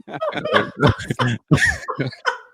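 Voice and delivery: wheezing, breathless laugh; cracking up hard; helpless high laughter. Real, not acted. Storyteller cracking up.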